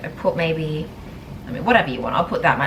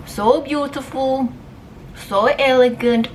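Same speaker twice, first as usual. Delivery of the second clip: high, slow gushing praise; drawn-out swooning quote, pitched up; quoting a video; 7 semitones higher, slower than usual. Retold or imitated. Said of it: "I love that video".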